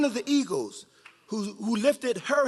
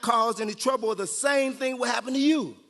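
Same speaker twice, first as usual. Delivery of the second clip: mock rooster threat; 5 semitones higher than usual.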